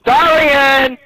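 high, impatient call. Real, not acted. Player summoning teammate Darian, calling out.

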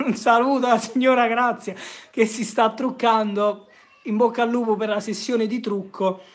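chuckling shout-out, half teasing; laughing greeting. Real, not acted. Streamer laughing as he greets his mother doing her makeup.

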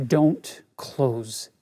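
low, slow, measured command; forceful command. Retold or imitated. Inner prompting stops the teacher mid-refusal, forceful low command. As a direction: let each word land slowly, low and firm. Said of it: "four words came very forcefully".

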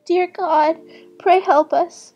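high-pitched pleading little sister; distressed plea. A narrator's reading. Weeping little sister prays for help, pleading in distress. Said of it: "cried she".

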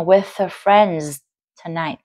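"with her" linked as "with-er"; "with her" joined, h silent; connected speech. Shown as a demonstration. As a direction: drop the h of "her" and link it to "with". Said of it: "Đọc nhanh sẽ thành".

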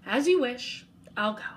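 whispered monster. Acted. Monster leaving, panting.

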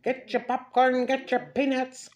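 lightly voiced circus vendor hawking snacks; circus vendor call. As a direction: call out like a circus peanut seller. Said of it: "it looks like".

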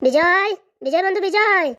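calling out. Acted. Friend calls Bijoy from outside.

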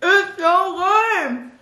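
slow, high, delighted praise; excited. Real, not acted. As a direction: stretch it out in delight. Tasting the food.

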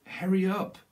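sudden loud high push to hurry; impatient shout. Pretend. Impatient channeled voice urging.

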